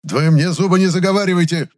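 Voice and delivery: high, loud furious bark; barking fury. A narrator's reading. Chemist barking at apprentice. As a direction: bark it with full force. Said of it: "рявкнул с такой силой".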